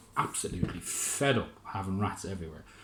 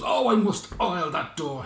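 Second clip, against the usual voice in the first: high, loud, slow complaint about the door; high, loud, slow mayor voice; mayor muttering; 8 semitones higher, 6 dB louder than usual. Acted. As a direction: grumble loudly in a high mayor voice. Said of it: "He goes".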